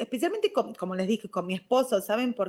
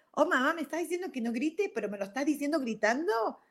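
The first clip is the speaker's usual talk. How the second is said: put-on confused child; 6 semitones higher than usual.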